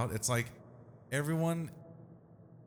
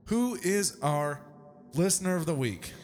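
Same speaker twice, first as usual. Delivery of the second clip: hype announcer; 6 semitones higher, 4 dB louder than usual. Acted. Hyping up listener announcement.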